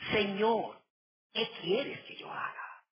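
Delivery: a touch of trembling fear, sinking to a breathless hush; trembling and fearful. Acted. A touch of fear as Saul asks the Lord. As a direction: ask it as a frightened, humbled man. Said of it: "temblando y temeroso".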